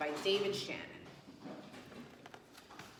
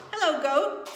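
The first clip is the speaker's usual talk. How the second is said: higher, louder friendly duck greeting; chirpy duck saying hello; cheery duck; 6 semitones higher, 6 dB louder than usual. Acted. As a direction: call out a bright hello as Duck. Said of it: "said Duck".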